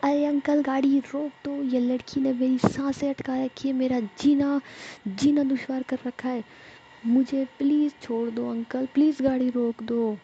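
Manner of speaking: calling out pleading. A narrator's reading. Jiya calls out to the driver, pleading loudly. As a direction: beg the driver loudly to stop. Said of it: "फिर आवाज़ देती है".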